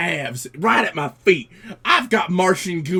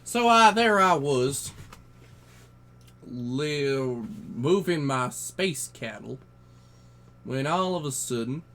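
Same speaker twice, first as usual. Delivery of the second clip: lightly voiced cowboy spinning a yarn; 3 semitones lower, 5 dB quieter than usual. Space cowboy telling guys a tall tale, folksy cowboy voice. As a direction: tell it like a folksy cowboy by the fire.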